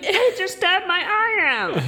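high, loud, hammed-up yelp of pain; mock cry of a stabbed man. The Cyclops, hammed up, shrieking in pain. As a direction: squeal it like a cartoon victim. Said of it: "he should just be like".

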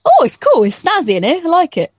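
high bright squeal of approval; mock delight. Inside the caravan, mock delighted squeal. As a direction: squeal it like a convert. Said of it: "I'm actually like".

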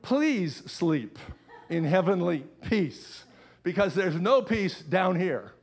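a hint of a pleading, worn-out mum; lightly voiced exasperated mother begging for sleep; frazzled mother. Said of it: "written by a frazzled mother".

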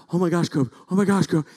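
loud, urgent amazement; re-enacted thrilled outburst; excited exclaiming. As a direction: call out to your son in rising excitement. Acts excitement at son's catch.

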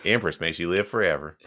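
light East Texas accent; a touch of Texan in the title; Texan drawl. Shown as a demonstration. Host with Texan family tries it, light Texan drawl. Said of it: "I know what that accent sounds like".

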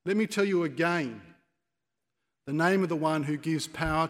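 loud, emphatic public proclamation; bold challenge. Acted. Acted defiant speech to the rulers.

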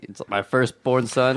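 slow mock-solemn regal imitation; mock regal echo. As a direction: hand the crown over as you say it. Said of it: "epic the way you said that".

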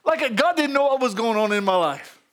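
low, subdued mock pleading; imitating his own sorry prayer; pitiful prayer. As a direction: mumble a feeble list of requests. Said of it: "you should have heard that pitiful prayer".

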